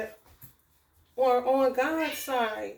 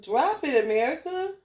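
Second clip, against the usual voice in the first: calling out to the cat; 4 semitones higher, 4 dB louder than usual. Real, not acted. Calling to cat holding mouse.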